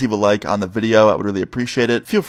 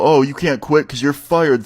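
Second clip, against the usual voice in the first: slow, higher mimicry of the boss; mock dramatic; 4 semitones higher, slower than usual. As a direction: parody someone's theatrical line. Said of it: "You don't need to add dramatic effect".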